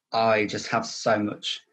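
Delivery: slow, choked-up pause before the words; real emotion welling up mid-sentence; getting emotional. Real, not acted. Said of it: "I'm getting emotional".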